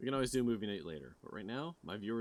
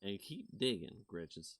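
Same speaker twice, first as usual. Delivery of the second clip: vlog host intro; slower than usual. Acted. Cryptid vlogger opening her video to viewers, hushed. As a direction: narrate like a mystery show host. Sign-off catchphrase.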